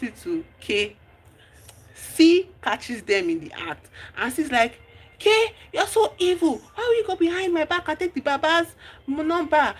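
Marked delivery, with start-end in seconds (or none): 5.2-9.7 high, hurt accusation; a lightly voiced shocked friend accusing. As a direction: call her out as evil, betrayed. Friend catches them, accuses K.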